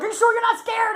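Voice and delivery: high, loud, laughing question; laughing tease. Retold or imitated. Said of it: "She's like".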